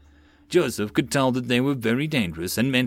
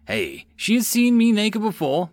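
grinning; 10 semitones higher, 4 dB louder than usual. A narrator's reading. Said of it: "Mills grinned".

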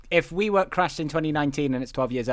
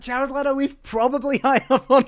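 higher pitch, amused and excited; mock casting brainwave; 7 semitones higher than usual. Co-host voicing Hollywood casting this freaky little guy, amused excitement. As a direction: pitch the bright idea while breaking into laughter.

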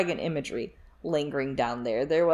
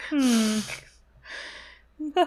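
perked-up mock Varys overhearing; 6 semitones higher, much slower than usual. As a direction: act falsely startled, hammed-up. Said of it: "Varys is like".

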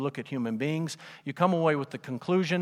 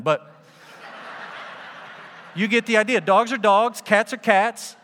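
higher and louder, hammering each word; emphatic shout; 4 semitones higher, 5 dB louder than usual. Acted. Preacher to congregation, loud and insistent. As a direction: drive it home like a preacher scolding a silly idea. Preacher mocking the doggy heaven idea.

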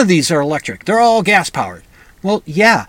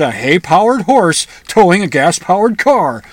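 mocking retort; 5 dB louder than usual. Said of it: "And I said".

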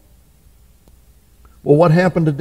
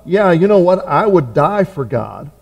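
glib boast; 2 semitones higher than usual. Retold or imitated. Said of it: "easy just to say off the cuff".

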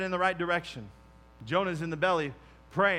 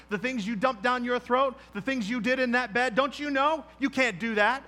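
the enemy's taunting voice, higher, rising toward the end; accusing enemy; 4 semitones higher than usual. Retold or imitated. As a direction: hammer him with guilt, growing shriller. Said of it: "the enemy was like".

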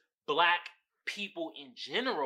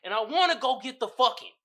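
dog begging to get out; voicing a dog; 9 semitones higher, 10 dB louder than usual. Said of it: "I know they be like".

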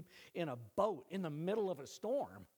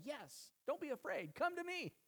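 higher, tender invitation; gentle voice of Jesus; 13 semitones higher than usual. Pretend. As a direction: answer like a loving Savior calling. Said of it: "And he'll say".

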